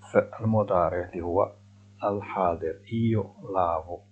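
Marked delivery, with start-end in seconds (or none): 2.9-4.0 slow model phrase. Shown as a demonstration. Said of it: "teacher models slowly".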